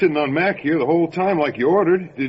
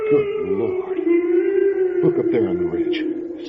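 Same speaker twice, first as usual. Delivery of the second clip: high, shocked exclamation; awestruck gasp. Acted. Deputy spots the creature on the ridge, aghast. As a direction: blurt it out in disbelief.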